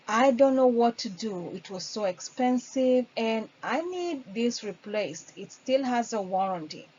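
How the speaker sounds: lightly voiced worried customer; upset caller. Shown as a demonstration. Trainer playing a caller with a broken microwave, mildly worried. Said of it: "a customer calls in and say".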